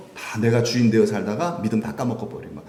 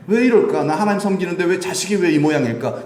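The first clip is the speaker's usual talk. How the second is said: higher-pitched mock complaint; mildly acted, higher exasperated questioning; exasperated lament; 5 semitones higher than usual. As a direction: voice a fed-up parent's lament. Voices a parent lamenting their child.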